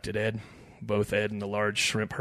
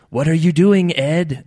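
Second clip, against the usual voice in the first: raised, loud shrimp voice asking; talking shrimp; 7 semitones higher, 13 dB louder, slower than usual. A narrator's reading. Shrimp questions Ed in the boat, high shrimp voice. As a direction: ask it as a little critter, loud. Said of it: "asked another".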